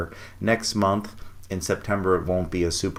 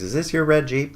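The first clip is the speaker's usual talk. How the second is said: lightly voiced worker, higher-pitched question; mild questioning worker; 8 semitones higher than usual. Construction worker asks about the Jeep, lightly imitated question. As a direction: imitate an inquiring stranger, pitched well up.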